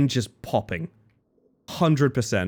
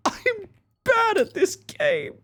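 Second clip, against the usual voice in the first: high whine; much slower than usual. Real, not acted. Whining after failing the tip.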